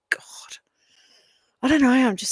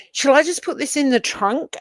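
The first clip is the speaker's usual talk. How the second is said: imitating daughter; 8 semitones higher, 5 dB louder than usual. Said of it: "she goes".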